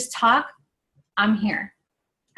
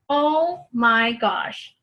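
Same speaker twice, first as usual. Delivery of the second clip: slow overwhelmed; much slower than usual. Retold or imitated. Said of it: "started crying".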